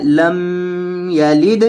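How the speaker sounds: لم یلد with a nasal hum on the mim; wrong nasal. Shown as a demonstration. Teacher imitating students' nasal mistake. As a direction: push لم یلد through the nose, the wrong way. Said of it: "آواز کو ناک میں لے جا کر".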